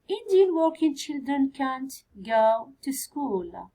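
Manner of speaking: slow whisper to herself. Real, not acted. Teacher whispering to herself at the board, slow whisper. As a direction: whisper the sentence slowly while writing. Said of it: "teacher whispers sentence while writing".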